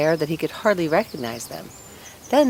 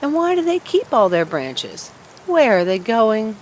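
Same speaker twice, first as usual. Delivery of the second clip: eager fir tree; 5 semitones higher, 4 dB louder than usual. Acted. Fir tree asks sparrows.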